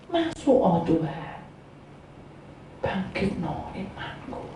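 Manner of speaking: soft, low plea to God; quiet prayer. Acted. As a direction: pray it humbly under your breath. Models faithful prayer, then "kan gitu.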